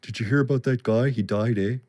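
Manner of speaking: a mock Canadian accent with eh; imitating Canadians trading grim news; a light Canadian "eh" accent; Canadian gossip. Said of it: "Every story is".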